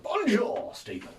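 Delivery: French greeting pitched high in a blunt English accent; unaltered English accent. Shown as a demonstration. Learner greeting Stephen in French, plain English accent. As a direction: make no attempt at a French accent. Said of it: "just keep with the English accent".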